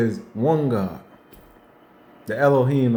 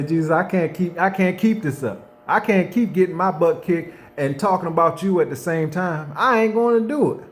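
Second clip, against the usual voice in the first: desperate plea; 5 semitones higher than usual. Retold or imitated. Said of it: "And I say".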